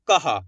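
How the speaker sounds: "कहा" as का followed by a voiced हा; two-part pronunciation. Shown as a demonstration. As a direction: sound हा right after का in "कहा". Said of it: "का के बाद हा का उच्चारण निकालेंगे".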